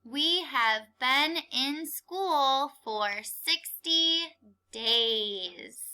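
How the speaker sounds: slow, word by word for the class; deliberate sentence reading; slow choral reading. Shown as a demonstration. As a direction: read it out slowly so kids can follow. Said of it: "Read the sentence with me".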